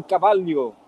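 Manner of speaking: cavalho said with a Portuguese LH, cabalio. Shown as a demonstration. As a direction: say cavalho with the LH sound. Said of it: "deveria ser a pronúncia que nem o L H".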